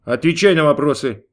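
loud barked command, God's voice; barked order. A narrator's reading. God orders Gabriel to answer, loud bark. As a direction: bark it, no patience left. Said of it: "рявкнул Бог".

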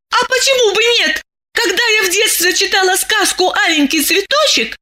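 put-on high young woman remembering; high girl recalling her childhood tale; dreamy girl. A narrator's reading. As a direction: tell it wistfully up high. Masha recalls the fairy tale.

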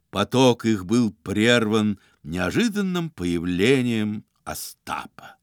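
plain reading voice

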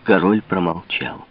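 usual speaking voice

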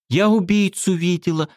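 high blurted secret; girl blurting out a secret. A narrator's reading. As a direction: spit it out fast and high. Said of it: "выпалила Светка".

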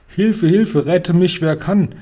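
high, loud, panicked cry; crying for help. A narrator's reading. Giant horrified by the nightmare, crying for help. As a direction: shout out in alarm. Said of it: "schrie er".

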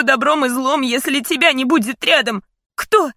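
rising, loud, high frightened plea; desperate pleading. A narrator's reading. Daughter pleading to her dying father in fear. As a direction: beg with mounting panic.

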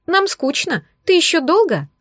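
high coaxing female voice; women's voices. A narrator's reading. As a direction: whine like a bored girlfriend. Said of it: "женские голоса". (капризный женский голос)

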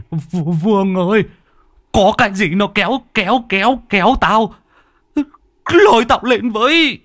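high frantic cry for help; high desperate call; panicked plea. Acted. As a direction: beg to be pulled out. Old man pulled under, begging.

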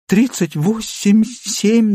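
high, slow and frightened; terrified muddle. A narrator's reading. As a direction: fumble the numbers in panic. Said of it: "начала путать перепуганная". (перепуганно путается, голос высокий)

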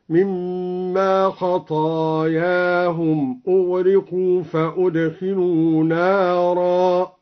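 خطاياهم as khataayaahum, open ta then long a; slow recitation, خطاياهم on the pattern قضايا; al-Duri reading of خطاياهم. Shown as a demonstration. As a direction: recite خطاياهم with fatha and alif, no ta. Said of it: "قرأ الدوري بفتح الطاء وبعدها ألف".

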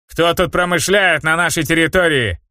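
cocky, loose thug voice; brash street swagger. Acted. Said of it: "развязный голос мужчины".

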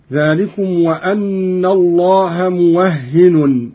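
موهن as muwahhinun, doubled h; slow recitation, موهن with a on waw and final nunation; Qalun reading. Shown as a demonstration. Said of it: "وتشديد الهاء".

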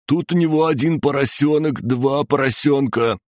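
put-on high-pitched childlike piggy counting; playful torturer. Torturer toys with sobbing victim, playful high voice. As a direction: count piglets in a high singsong voice.

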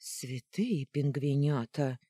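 потрясённый возглас, медленно; ахни от изумления; потрясённо ахнула. Acted. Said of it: "потрясённо ахнула я". (потрясённо, медленно)

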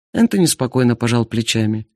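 ordinary delivery, nothing marked

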